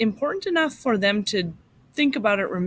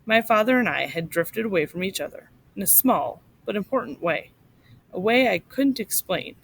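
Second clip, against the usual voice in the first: steady storyteller narration, slightly raised; story reading to a class. A narrator's reading. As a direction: read it like a teacher sharing a story with kids. Teacher reads memoir aloud to class.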